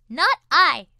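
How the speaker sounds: loud lazy refusal; a lightly voiced cat, uninterested; snooty bored cat. A narrator's reading. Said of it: "said the cat".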